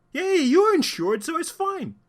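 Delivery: high, loud sarcastic yay; mock cheer. Commentator mocking people who excuse damage with insurance, high sarcastic cheer.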